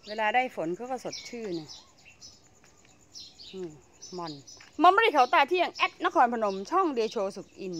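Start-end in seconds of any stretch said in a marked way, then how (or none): 4.8-7.7 channel shout-out. Acted. Plugging a friend's channel.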